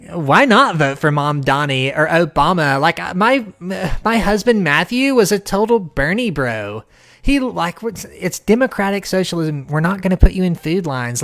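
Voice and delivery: lightly voiced valley-girl mock; mock trendy liberal woman. Imitating a trendy liberal wife, light valley-girl mock. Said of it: "And they talk like that".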